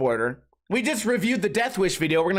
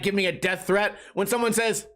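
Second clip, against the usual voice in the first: ordinary talk, nothing marked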